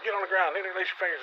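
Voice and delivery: imitating a cop's high-pitched, nervous barking; mock squeaky shouted command; squeaky nervous yell. Nervous cop ordering two armed men down, mock squeaky yell. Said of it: "This guy is squeaking out".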